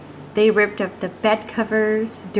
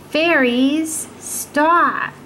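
mock command; 5 semitones higher, much slower than usual. Old woman commands the fairies.

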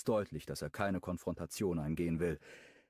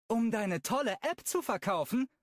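higher, sneering question; mock his app with scorn; contemptuous; 4 dB louder than usual. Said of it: "fragt Brooklyn verächtlich". (verächtlich höhnisch)

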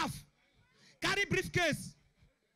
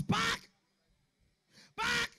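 police order; 5 semitones higher than usual. Acted. Police stopping the car, acted.

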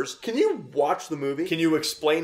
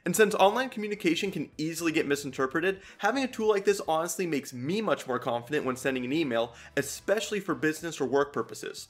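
ad read. Acted. Reads sponsor ad.

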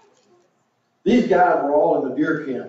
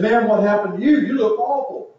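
surprised campers; 6 semitones higher than usual. Retold or imitated. Campers reacting to their bleary friend, shocked and high. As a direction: pitch jumps high, shocked at his face.

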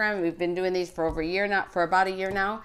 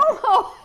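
high laugh; 6 dB louder than usual. Real, not acted. Laughs at child's answer.

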